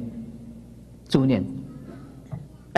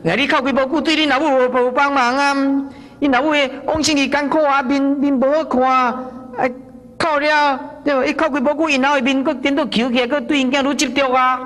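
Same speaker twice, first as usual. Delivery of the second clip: urgent retold admonishing; 6 semitones higher than usual. Monk admonishing the weeping son.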